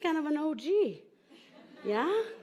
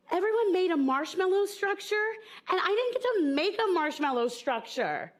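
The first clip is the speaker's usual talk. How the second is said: put-on upset little girl; 7 semitones higher than usual. Little girl complaining to her mom about school, mock upset. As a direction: whine it like a kid who missed out. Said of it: "And I was so upset".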